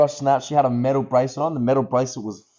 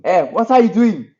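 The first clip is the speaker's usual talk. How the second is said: attempted Asian accent; 7 semitones higher, 5 dB louder than usual. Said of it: "I can't do that accent".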